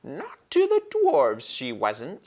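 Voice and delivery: dwarf snapping back at a claim; gruff dwarf. A narrator's reading. Slow dwarf retort. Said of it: "said Nikabrik".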